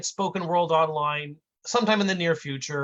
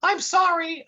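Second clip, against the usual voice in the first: much higher, slow meek apology; high kid voice; 14 semitones higher, 4 dB louder than usual. Acted. Intern apologizing again, slow high voice. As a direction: drag it out like a dopey kid. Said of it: "And the fat kid says".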